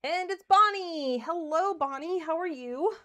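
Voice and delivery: bright, loud, high hello; excited greeting. Real, not acted. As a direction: call out happily to a friend. Greeting a viewer in chat.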